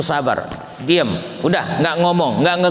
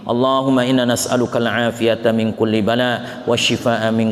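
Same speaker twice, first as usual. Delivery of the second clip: steady recited Arabic prayer; closing prayer; 2 semitones lower than usual. Acted. Preacher closing the session with prayer for listeners, steady recitation.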